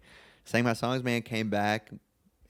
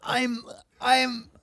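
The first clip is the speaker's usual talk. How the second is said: high, loud stumbling intro in a put-on Southern accent; 11 dB louder than usual. Player introducing himself at his first team meeting, in a put-on Southern accent. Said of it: "I don't know why everyone's Southern".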